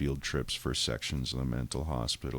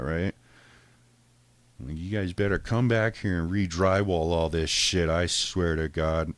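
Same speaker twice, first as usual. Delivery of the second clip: indignant rant; 4 semitones higher, 4 dB louder than usual. Retold or imitated. Ranting at the cops.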